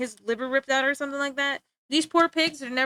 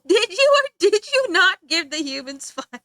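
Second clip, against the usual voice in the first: loud, high, hammed-up demand; comic outraged cross-examination; mock furious interrogation; 7 semitones higher, 7 dB louder than usual. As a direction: press the question like an exasperated accuser. Acted interrogation of Prometheus by Zeus.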